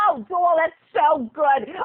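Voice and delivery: slightly high, drawn-out gush; lightly voiced agent cooing approval; casting woman. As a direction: stretch the praise out slowly. Casting woman praising the audition.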